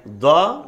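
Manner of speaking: دا with a heavy, dark consonant, loud; distinct pronunciation. Shown as a demonstration. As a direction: sound out the letter دا on its own. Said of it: "ان تلفظ کو بیان کیا".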